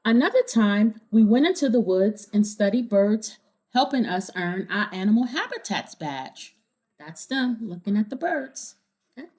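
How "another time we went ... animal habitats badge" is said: clear, lively storybook reading; reading to children. A narrator's reading. Reader telling kids the story, bright storybook narration. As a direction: read it to a room of kids. Reading picture book aloud.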